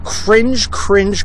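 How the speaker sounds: CRINGE repeated, pitched high; emphatic repetition. Real, not acted. Repeats his reaction for emphasis.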